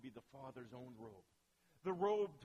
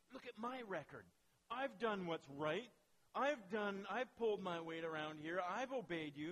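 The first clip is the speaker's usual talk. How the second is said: indignant protest; 3 semitones higher, 5 dB louder than usual. Acted. Elder brother protests to father.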